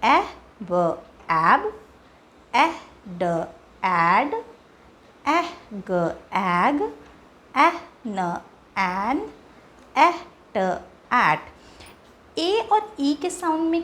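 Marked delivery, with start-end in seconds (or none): 0.0-11.4 each sound held apart, very slow, then joined; phonics blending demo. Shown as a demonstration. Teacher showing the e sound blends, drawn out slowly. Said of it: "ई का sound होता है ए".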